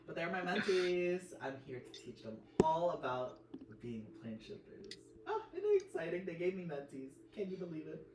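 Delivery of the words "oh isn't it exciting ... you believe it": excited. Pretend. Player voicing excited character.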